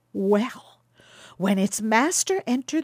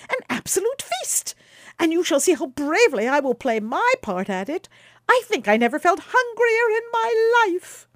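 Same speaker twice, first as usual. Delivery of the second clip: much higher, gleeful and louder; merry young traveller; 10 semitones higher, 5 dB louder than usual. Acted. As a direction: boast of his hunger with glee. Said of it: "exclaimed Quicksilver, laughing".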